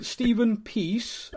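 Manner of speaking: "Stephen Peace" said very slowly, stressing Stephen; slow, deliberate "Stephen Peace"; slow clarification. Shown as a demonstration. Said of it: "as in, you know, give peace a chance".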